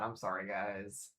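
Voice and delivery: soft, slow, sheepish sorry; quiet apology. Real, not acted. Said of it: "Flare point, I know, it's bad".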